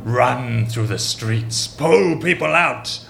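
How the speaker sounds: slow, lightly sinister cult leader orders; a touch of the sinister leader. Acted. Cult leader sending followers out, lightly sinister. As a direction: give the orders in a hint of the villain voice. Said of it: "in a strange and sinister voice".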